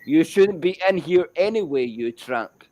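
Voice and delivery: mild mock yell, falling away at the end; half-hearted replay of a shouted insult; retold shout. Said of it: "I shouted".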